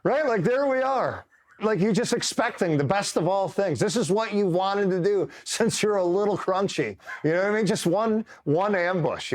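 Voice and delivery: high, squeaky voice after a laughing fit; helpless with laughter, pitch way up; cracking up. Real, not acted. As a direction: talk through real laughter.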